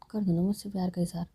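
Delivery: soft coaxing whisper; pleading whisper. Acted. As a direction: whisper it as a begging request. Seema begs SK to confess.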